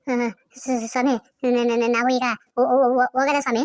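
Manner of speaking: stuttering, tripping over each syllable in fear; frightened stammer. Acted. Scared villager asking the brutal officer if he may leave, stammering. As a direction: get the words out in scared stammers.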